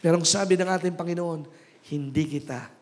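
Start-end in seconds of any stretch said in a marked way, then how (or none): 1.9-2.7 low, softer, reassuring voice; gentle divine promise. Acted. Preacher quoting the Lord's promise never to forsake, low and reassuring. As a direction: lightly voice a tender, unhurried promise.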